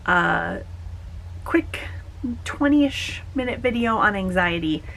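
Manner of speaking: hushed whisper. Real, not acted. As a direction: drop to a whisper. Sudden whisper mid-vlog.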